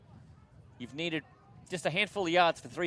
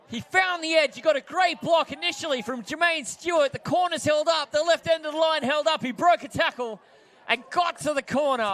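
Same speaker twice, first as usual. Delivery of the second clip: excited recap; 7 semitones higher, 5 dB louder than usual. Real, not acted.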